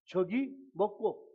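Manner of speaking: short, slow Gyeongsang-accented question; demonstrating Gyeongsang speech; Gyeongsang dialect. Shown as a demonstration. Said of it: "경상도 말로".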